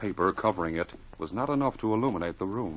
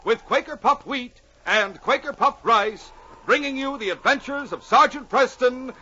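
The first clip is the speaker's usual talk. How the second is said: dramatic announcer read; radio announcer; 10 semitones higher, 4 dB louder than usual. Acted. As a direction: build excitement like an old radio intro. Announcer dramatic intro continues.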